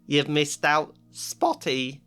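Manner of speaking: sneering hiss. Acted. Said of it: "Peeves hissed in her ear".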